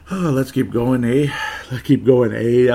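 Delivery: playful put-on Irish-Canadian lilt; jokey mock Irish-Canadian accent. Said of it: "I'm a Canadian, Irish Canadian, I guess".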